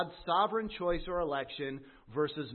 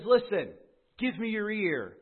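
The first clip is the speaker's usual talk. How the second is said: raised, louder call to listen; calling for attention; 4 semitones higher, 4 dB louder than usual. Acted. Preacher voicing James, calling loudly for attention. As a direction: grab the congregation's ear.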